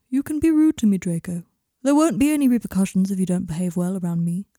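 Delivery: lightly voiced, firm therapist; measured therapist. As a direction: reassure a client with measured authority. Therapist character speaking to client.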